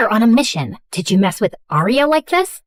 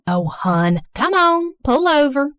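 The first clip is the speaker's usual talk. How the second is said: put-on Southern accent; 5 semitones higher than usual. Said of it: "thick Southern accent".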